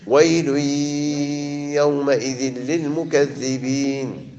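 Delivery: slow chanted recitation of ويل يومئذ للمكذبين; Quran recitation. Shown as a demonstration. Teacher recites for students, slow and measured. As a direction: recite it slowly, as tajwid practice. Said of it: "Quran recitation by teacher".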